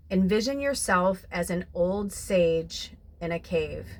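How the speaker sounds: slow it down and draw them inward; guided visualization. Acted. Guiding viewers with eyes closed, slow calm visualization. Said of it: "close your eyes".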